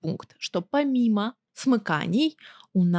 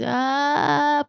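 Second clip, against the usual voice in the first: vocal fry; 5 semitones higher than usual. Shown as a demonstration. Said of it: "пытаться чё-то там скрипеть".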